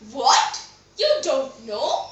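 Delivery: incredulous, drawn-out question rising at the end; surprised maid. Acted. Maid hears the queen does not know, surprised. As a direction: question it with mild disbelief. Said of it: "The maid was surprised".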